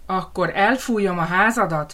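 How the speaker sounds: a touch of menace on elfújom; lightly voiced wolf threat; threatening wolf. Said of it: "fenyegetőzött a farkas". (enyhén fenyegető farkas)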